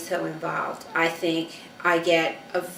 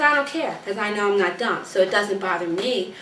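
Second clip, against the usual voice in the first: retold daughter; 2 semitones higher than usual. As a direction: imitate a daughter brushing it off, pitched up at first. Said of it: "She says".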